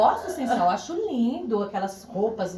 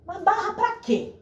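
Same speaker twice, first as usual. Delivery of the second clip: high, slow puzzled-dad question; baffled dad impression, pitched up; imitated father; 9 semitones higher than usual. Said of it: "Aí meu pai".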